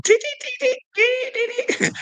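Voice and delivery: very high squeaky alarm beeps; alarm beeping. Retold or imitated. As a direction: beep like an inner alarm going off. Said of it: "my intuition was always going".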